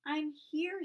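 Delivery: high, loud muffled call from underneath. Acted. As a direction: call out squashed under a pile. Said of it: "in a muffled voice".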